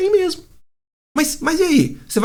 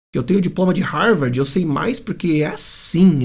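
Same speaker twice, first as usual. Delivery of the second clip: mock know-it-all; 3 semitones lower than usual. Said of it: "dando carteirada".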